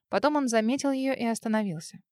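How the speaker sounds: ordinary delivery, nothing marked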